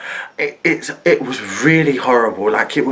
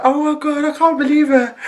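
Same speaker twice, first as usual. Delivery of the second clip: disbelief; 11 semitones higher than usual. Retold or imitated. Retells her own shocked reaction.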